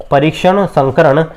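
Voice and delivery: परीक्षण संकरण said slowly and evenly as one phrase; slow drilled term. Shown as a demonstration. Teacher repeating the term slowly for students to note. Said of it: "क्या होता है?".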